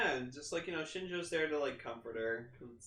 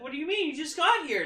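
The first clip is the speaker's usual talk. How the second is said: higher, upset questioning voice; imitating Mayumi, confused; 11 semitones higher, 5 dB louder than usual. Voicing Mayumi as her love vanishes, higher and upset. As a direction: raise the voice, she can't believe it. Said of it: "And she's like".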